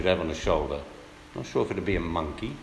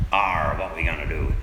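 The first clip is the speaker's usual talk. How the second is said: pirate voice; 3 semitones lower than usual. Pretend. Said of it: "speaking like".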